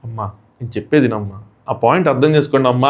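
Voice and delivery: a light imitation of a gentle guru pleading; lightly voiced holy-man calm; saintly Sai Baba-like plea. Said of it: "నేను సాయిబాబా లాగా".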